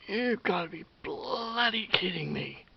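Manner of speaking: slow, high and loud disbelieving groan; disbelief. Retold or imitated. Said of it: "I'm like".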